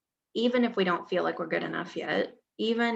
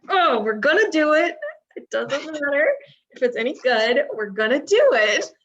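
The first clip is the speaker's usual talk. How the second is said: higher and louder, fired-up vow; determined declaration; 7 semitones higher, 7 dB louder than usual. Retold or imitated. Host vows to record the podcast anyway, fired-up and loud. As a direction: declare it like a rallying cry. Resolving to record despite delays.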